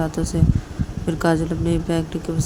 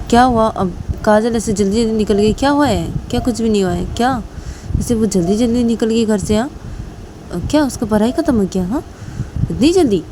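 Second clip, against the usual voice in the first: lightly acted, higher-pitched puzzlement; puzzled questioning; 4 semitones higher than usual. Reshma's father asking why Kajal left so soon, mildly acted puzzled questioning. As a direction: press with surprised questions.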